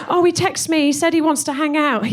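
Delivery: lightly voiced gushing mum. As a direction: play her mum, giddy about a text. Voicing mum's dating gossip.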